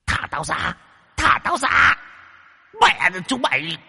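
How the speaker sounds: very high, desperate screeching plea; caged spirit shrieking to be freed; ghost screaming. Acted. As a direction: shriek to be let go.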